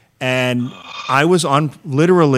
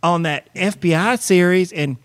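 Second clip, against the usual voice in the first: Leslie Jordan impression; 4 semitones higher than usual. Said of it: "That's my Leslie Jordan impression".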